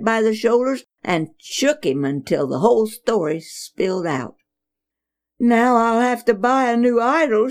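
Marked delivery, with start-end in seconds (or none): 5.4-7.5 wailing. Acted. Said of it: "she wailed".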